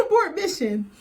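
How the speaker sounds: high, loud, breaking into laughter; high, loud abort mission said while laughing; laughing plea. Retold or imitated. Repeated with laughter.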